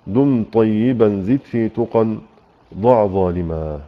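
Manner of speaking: slow, measured chanting of verse; recited poem. Acted. Teacher reciting the poem to the students slowly.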